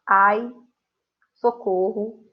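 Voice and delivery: loud startled cry for help; mock alarm, calling for help; exclamation demo. Shown as a demonstration. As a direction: act out a sudden fright. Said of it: "aqui a gente tem alguns exemplos de frases".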